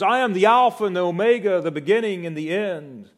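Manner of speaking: loud, high, quick declaration; loud trumpet-like voice. Retold or imitated. The Lord announces himself to John, loud trumpet-like voice. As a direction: proclaim it like a trumpet. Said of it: "he heard a loud voice like that of a trumpet".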